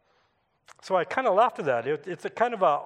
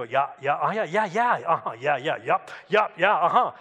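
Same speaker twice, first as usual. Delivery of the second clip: quick run of tracking yeahs; habitual listening acknowledgements. Shown as a demonstration. Neighbour showing he follows a story, habitual agreeable listening. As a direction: keep nodding along in murmured yeahs and uh-huhs. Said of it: "I kinda do this".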